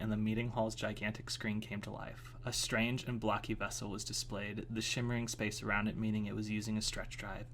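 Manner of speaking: low-key, even story reading; story narration. A narrator's reading. Reading a chapter to listeners, even story narration. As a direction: read it evenly, a little softly.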